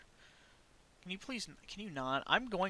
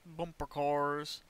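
slow, drawn-out bumper cars; much slower than usual. Shown as a demonstration. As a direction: stretch it out slowly.

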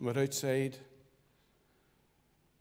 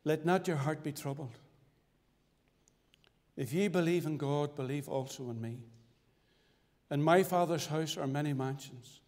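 scripture recitation. Acted. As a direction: recite the verses reverently, measured.

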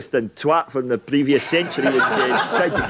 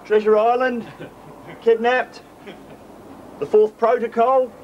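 raised voice, hammed-up pleading at a locked door; mock pleading fan; 6 semitones higher than usual. Tony outside Stevenson's birthplace begging to enter, hammed-up pleading. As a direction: beg to be let in like a desperate superfan.

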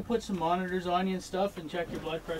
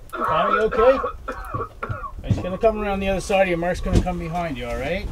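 urgent calling; 3 semitones higher, 5 dB louder than usual. Acted. Patient deteriorating, paramedic calls.

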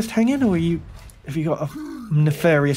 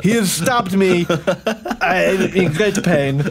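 Lesnok the war correspondent; 2 semitones higher than usual. Acted.

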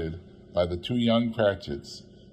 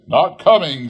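crestfallen; 6 semitones higher, 10 dB louder than usual. A narrator's reading. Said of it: "with sudden declension in his high spirit".

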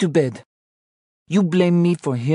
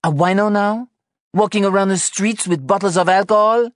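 very high, loud, incredulous rebuke; scandalized; 6 dB louder than usual. Acted. Anna finds beer in Sean's pocket, appalled and high-pitched. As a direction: scold in shrieky disbelief.

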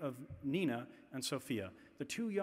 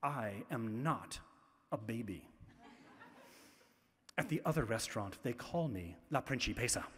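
put-on indignant little girl; 5 semitones lower, 4 dB quieter than usual. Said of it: "she says".

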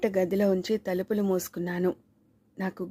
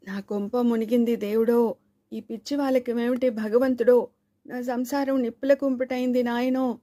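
higher, louder sing-song wail; loud wailing lament; 4 semitones higher, 3 dB louder than usual. Acted. Wife wails aloud to the gods, a raised keening lament. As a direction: wail to heaven about a ruined home. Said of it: "గొంతు పెంచేసి ఏడవటం ప్రారంభించింది".

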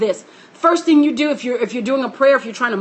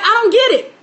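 higher, fast, flustered rush; mock bewilderment; 6 semitones higher, much faster than usual. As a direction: rattle it off like a confused bystander. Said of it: "everyone's like".

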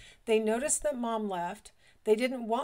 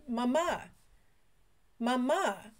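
calling mama; 3 semitones higher, slower than usual. Retold or imitated. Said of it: "kept looking out the window going".

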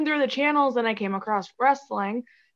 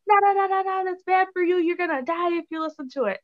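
badly faked European accent, much higher, laughing through it; imitating European grandpa; 8 semitones higher than usual. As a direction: play the worried grandpa in a shaky attempt at a European accent. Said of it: "I can't do a good accent".

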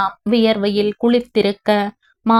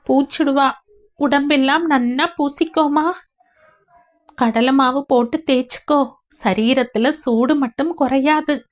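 tearful wife; 3 semitones higher than usual. Acted. Wife quoting mother-in-law.

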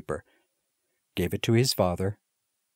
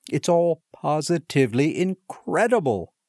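higher, louder, bursting with news; excited; 7 semitones higher, 3 dB louder than usual. A narrator's reading. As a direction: blurt it out overjoyed. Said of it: "with excited face".

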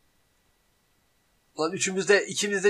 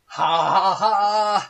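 slow, drawn-out laughter; slow pained laugh; 3 semitones higher, 7 dB louder, much slower than usual. Real, not acted. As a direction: laugh through the burn. Laughing at spicy pain.

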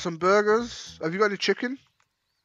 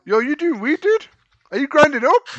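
louder and higher, building to a shout; excited yelling; 8 semitones higher, 12 dB louder than usual. Real, not acted. Streamer shouting across at a guy grinding weed, excited yell. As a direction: call out, thrilled to catch him at it.

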